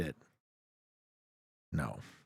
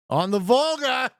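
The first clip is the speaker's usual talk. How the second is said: drawn-out, much higher shout; triumphant shout; 11 semitones higher, 6 dB louder than usual. Real, not acted. Streamer announces the Kazan guess to the team, triumphant slow shout. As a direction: belt it out like a victory cry.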